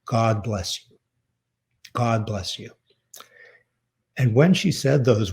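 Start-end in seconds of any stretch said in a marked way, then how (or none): 0.0-1.0 a soft, quiet blessing from mother; tender blessing. Retold or imitated. Mother blessing her only son, quiet and tender. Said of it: "And the three words were". 1.9-2.7 softer still, the blessing echoed; tender blessing repeated. Retold or imitated. Mother repeating her blessing to her son, quieter and tender. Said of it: "And the three words were".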